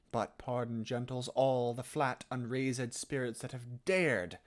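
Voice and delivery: recited verse with a slight lift on each line-ending word; emphasised line endings. Shown as a demonstration. Coach modelling Shakespeare for students, line endings lightly stressed. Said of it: "providing just the tiniest bit of emphasis to".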